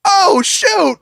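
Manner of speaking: high, whimpering dismay; mock alarm. Man realising the demon is angry, alarmed. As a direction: play up being caught out.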